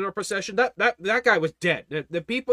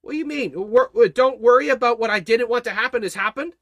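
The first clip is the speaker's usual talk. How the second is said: incredulous Jairus; 4 semitones higher, 5 dB louder than usual. Acted. Jairus questions the Lord.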